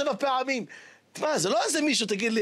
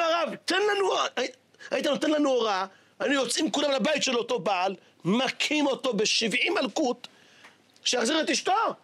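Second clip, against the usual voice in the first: indignant students; 4 semitones higher than usual. Acted. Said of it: "אמרו לו".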